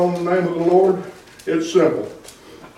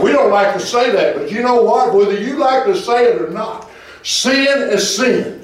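raised-pitch emphatic preacher delivery; forceful preaching; 8 semitones higher than usual. Real, not acted. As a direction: preach it firmly, drawing out key words.

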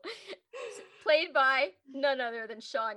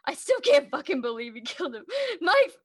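high wailing half-sob; hammed-up tearful rant; mock crying; 6 semitones higher, 5 dB louder than usual. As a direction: whine it like you're about to cry. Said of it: "I'm like".

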